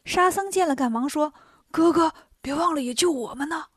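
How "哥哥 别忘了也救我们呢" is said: urgent plea. Acted. Sha Seng urgently begs rescue.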